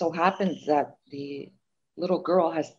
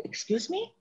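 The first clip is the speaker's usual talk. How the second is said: incredulous excuse me; 11 semitones higher, 7 dB quieter than usual. Retold or imitated. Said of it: "I'm like".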